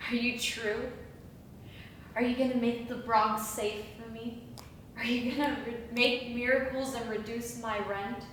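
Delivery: soft, low, wondering questions; hushed questioning. Acted. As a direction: ask it softly, as if to a visitation. Awed questions to an angel.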